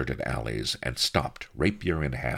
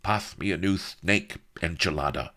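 purr; 3 semitones higher than usual. Acted. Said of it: "purred the viceroy".

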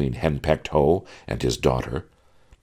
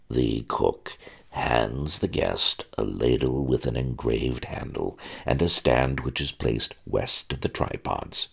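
lightly voiced butler. Butler instructing the young groom in etiquette, lightly prim. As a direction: recite rules like a stuffy butler.

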